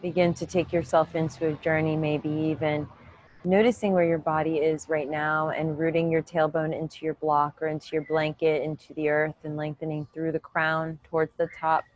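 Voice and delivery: calm, even meditation voice with long pauses; unhurried yoga-teacher meditation cues; guided meditation. Real, not acted. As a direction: guide them gently inward, leaving room to breathe.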